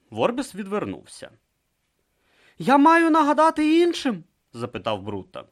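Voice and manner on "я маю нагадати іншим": dutiful question. Acted. Brutha asks Vorbis.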